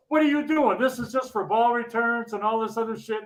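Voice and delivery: a touch of retold outrage; imitating an angry scold. Angry supervisor scolding the guys, in mild mock irritation. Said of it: "he's all pissed off anyway".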